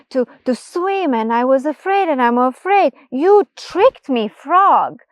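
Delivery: high, loud, agitated complaint; a frightened mouse's angry outburst; upset mouse. Acted. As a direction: scold the frog, near panic. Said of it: "he is pissed".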